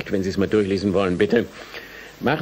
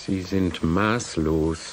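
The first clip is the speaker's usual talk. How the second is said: slow, breathless whisper of disbelief; appalled whisper; 4 semitones lower, 3 dB quieter, much slower than usual. Acted. Professor answers the student's demands in a stunned whisper. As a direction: hush it out, stunned.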